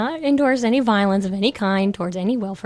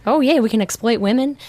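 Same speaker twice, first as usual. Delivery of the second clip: mocking, sarcastic; sneering mock enthusiasm; sarcastic mock cheer; 4 dB louder than usual. Mocking PETA's voice.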